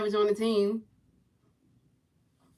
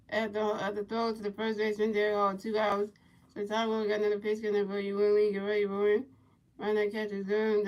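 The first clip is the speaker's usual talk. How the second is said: play-by-play commentary; 5 dB quieter than usual. Pretend. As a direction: call each pitch softly in a level voice. Calls the game play-by-play.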